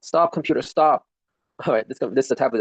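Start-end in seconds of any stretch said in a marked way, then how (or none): 0.0-1.1 higher, sharper stop order; real annoyance; frustrated command. Real, not acted. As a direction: yell at the glitching computer to stop.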